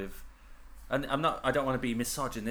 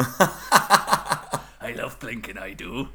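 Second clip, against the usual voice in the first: slow put-on voice; 8 dB louder, much slower than usual. Comic impression.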